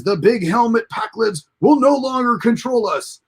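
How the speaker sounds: a touch of a dim alien's grand speech; mock Pakled rebel cry; Pakled declaration. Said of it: "he says".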